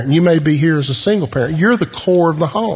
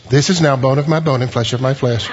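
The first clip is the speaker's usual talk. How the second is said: flat solemn reading; 3 semitones lower than usual. Shown as a demonstration. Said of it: "I don't think he looks and says".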